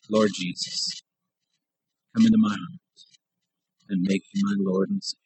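measured prayer in short phrases; prayer to repeat. Shown as a demonstration. Preacher giving listeners words to say in their heart, measured prayer. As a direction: lead them phrase by phrase, pausing after each.

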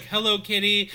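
lightly imitated, somewhat high greeting; half-hearted go at a big line; tame first attempt. Sorority girl obeying the step leader, tame first try. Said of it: "she's like".

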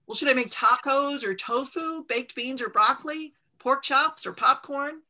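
mother begging the mountain for any dinner answer; exasperated pleading. Acted. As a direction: rattle off every option, hoping one gets a yes.

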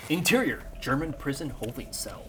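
dramatic scene-setting narration; story narration. A narrator's reading. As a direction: set the scene like a film script. Game master scene narration.

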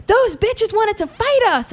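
high, drawn-out indignant voice; imitated outraged mom. Buzzed mom tells daughter in the Uber, indignant imitation. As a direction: play mom slowly spilling the outrage.

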